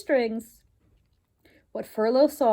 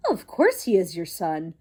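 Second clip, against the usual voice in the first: lightly voiced haughty mother mouse; 5 semitones lower, 3 dB louder than usual.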